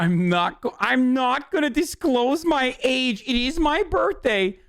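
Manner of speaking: mock-prissy woman's voice; mocking the lady. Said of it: "Oh, this is peak".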